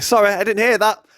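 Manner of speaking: retold high-pitched fake apology; quick high brush-off, re-enacted; mock apology. Retells cheeky reply while fleeing.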